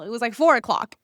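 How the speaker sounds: ordinary delivery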